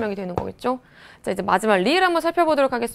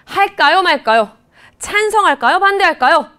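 표결 묻는 말투; 6 semitones higher, 6 dB louder than usual. Shown as a demonstration. 의결을 표결 질문으로 시연.

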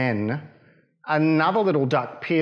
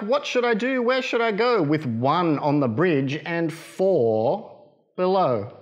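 Mother Duck; 2 semitones higher than usual. Acted. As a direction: fret like a flustered mother duck. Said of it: "quacked Mother Duck".

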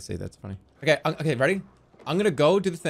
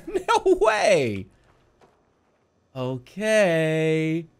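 exaggerated slow sing-song, louder at peaks; pretend searching; 3 dB louder, much slower than usual. Seeker pretending not to find a three-year-old, slow hammed-up puzzlement. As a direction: act baffled, stretching every phrase. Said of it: "you gotta start like this".

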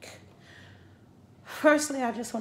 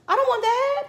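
high, loud no; loud refusal; 9 dB louder than usual. Real, not acted. Refusing the vaccine, loud. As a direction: refuse it flatly, raised voice.

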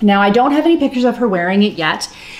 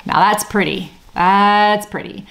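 wry irony. Real, not acted. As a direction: praise your botched work tongue in cheek. Ironic praise of lumpy neckband.

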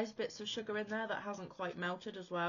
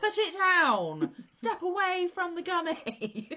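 slow, loud mock police order; stern command; 13 semitones higher, 10 dB louder, slower than usual. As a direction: order him to drop it.

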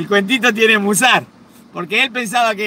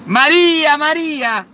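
louder shout of her name; calling down the hall; 6 semitones higher, 4 dB louder, slower than usual. Retold or imitated. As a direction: yell it down the hallway. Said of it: "gritale por el pasillo".

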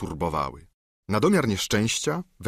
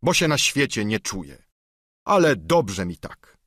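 lightly voiced solemn knight, a bit raised; knight's voice; 3 semitones higher than usual. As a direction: swear it on knightly honour. Don Quixote voiced.

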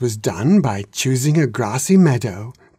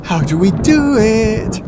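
put-on eager young dragons; 9 semitones higher, 5 dB louder than usual. A narrator's reading.

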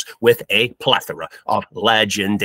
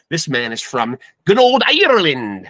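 put-on Irish accent; 3 semitones higher, 4 dB louder than usual. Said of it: "don't even know if that was a good Irish accent".

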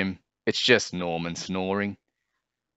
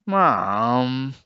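moaning; 5 semitones higher, 4 dB louder than usual. A narrator's reading. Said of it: "moaned Jim".

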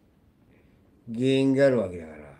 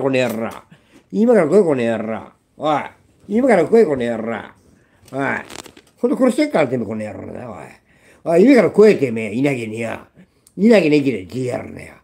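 screaming rage; 9 dB louder than usual. Real, not acted. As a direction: scream a challenge in genuine fury. Screaming challenge at betrayers. (本気でブチ切れて叫ぶ)

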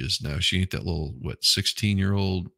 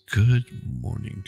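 much higher, slow greeting; sing-song morning greeting; slower than usual. Real, not acted. Greeting a viewer in chat, high and sing-song.

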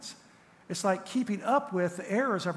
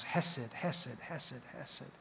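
each hesed softer until almost gone; fading repetition; 2 semitones lower, 8 dB quieter, much slower than usual. Acted. Pastor savoring God's love, fading from soft to barely audible. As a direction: let the word die away to nothing.

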